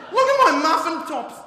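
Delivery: high, loud, slow panicked wail; hysterical whiner. Pretend. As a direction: overdramatise a trivial complaint. Mocking whiny Westerners.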